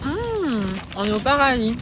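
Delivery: talking with mouth full; words round a bite of food. Real, not acted. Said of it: "Pardon, j'ai la bouche pleine".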